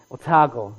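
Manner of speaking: Otago with the middle stressed, oh-TAH-go; corrected Otago. Real, not acted. Visiting minister corrects himself on the local name, Otago as oh-TAH-go. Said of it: "Sorry, I'm still working on my".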